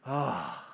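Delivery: soft sigh of relief; relieved sigh. Retold or imitated. Congregation hearing hell is only metaphor, relieved sigh. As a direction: let out a low, relieved "ah". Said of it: "a little bit of reprieve".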